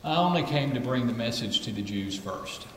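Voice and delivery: low, soft, measured words; quiet Jesus. Retold or imitated. Jesus answering the woman, low and soft. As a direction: say it calmly and low.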